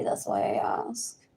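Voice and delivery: breathy retold reply; whispered. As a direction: whisper it as if confiding. Retelling her own reply at dinner.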